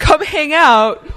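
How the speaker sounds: high, drawn-out mimicked invite; long, lilting come-on; coaxing invitation. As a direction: imitate a friend luring you out. Voicing friend's invitation to come out.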